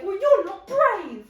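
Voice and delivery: loud, drawn-out imitated taunt; mock taunt. Imitating Diggory needling Polly, mock taunting.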